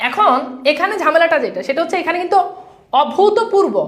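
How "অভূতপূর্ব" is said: "অভূতপূর্ব" as o-bhu-to-pur-bo, pitched higher; pronunciation demo. Shown as a demonstration. Teacher showing the class the word, carefully pronounced. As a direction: sound out "অভূতপূর্ব" with a clear bhu and to. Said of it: "আগে উচ্চারণটা বুঝেন".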